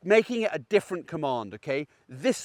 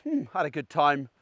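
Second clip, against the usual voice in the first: calm sleepy dog; 4 semitones lower, 4 dB quieter than usual. Retold or imitated. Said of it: "he goes".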